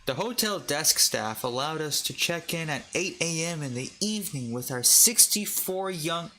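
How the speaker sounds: attempted Irish accent, rising in pitch. Shown as a demonstration. Reader attempting a hotel review in an Irish accent. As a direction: read it out in a put-on Irish accent. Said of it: "read it in an Irish accent".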